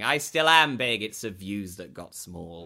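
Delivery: slow grand bitter declaration; bitter faded star. Retold or imitated. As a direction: play a faded diva lamenting. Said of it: "walking the halls and going".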